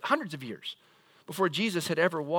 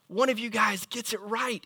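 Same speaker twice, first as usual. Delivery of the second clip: playful; 5 semitones higher than usual. Pretend. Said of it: "Jesus looks at you and says".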